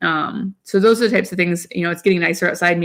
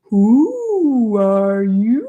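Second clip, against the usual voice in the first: put-on slow, higher storybook British accent; 4 semitones higher, much slower than usual. Mom reads a potty book to her daughter, British accent. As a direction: read it like a cheery British picture book.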